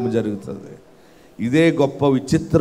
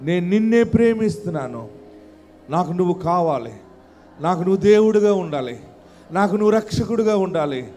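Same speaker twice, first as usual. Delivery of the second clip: led prayer. Acted. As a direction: pray it out gently over music. Leads prayer.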